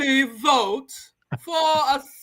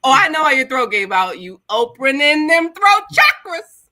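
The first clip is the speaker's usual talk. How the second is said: louder, quick, gleeful ribbing; loud fast teasing; 5 dB louder, faster than usual. Real, not acted. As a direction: tease him loudly and fast.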